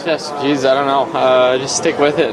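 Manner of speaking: emotional, catching breath midword; fighting back tears, words catching; choked up. Real, not acted. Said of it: "I'm sorry, I'm emotional".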